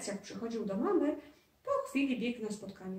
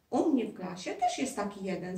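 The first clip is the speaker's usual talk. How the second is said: says it through a little laugh; light amused laugh in the words. Acted. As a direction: chuckle while telling on a classmate. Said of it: "zaśmiał się Adaś".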